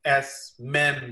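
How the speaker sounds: S men, slowly and distinctly; joined syllables. Shown as a demonstration. Translator shows how to read it together, slow demonstration of S men. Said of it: "इसको जब हम इकट्ठा पढ़ेंगे".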